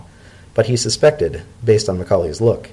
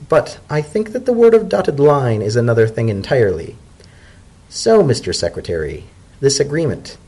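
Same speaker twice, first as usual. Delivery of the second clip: zebra elder; 3 semitones higher than usual. Acted. Macaulay asks about the deal.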